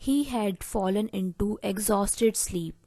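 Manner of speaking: very slow and deliberate, word by word; slow dictation. Shown as a demonstration. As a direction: dictate the phrase slowly to the class. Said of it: "जिसे आप English में बोलेंगे".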